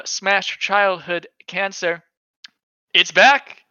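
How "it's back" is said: excited. Real, not acted. Excited news announcement.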